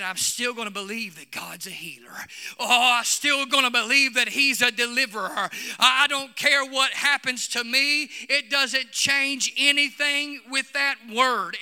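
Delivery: retold shout. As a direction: quote a defiant declaration of faith, swelling as it goes. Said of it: "he started shouting".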